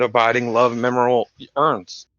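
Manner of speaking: slurred, tongue stuck to the palate; words thick, tongue glued to the roof of the mouth. Real, not acted. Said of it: "tongue got stuck to the roof of my mouth".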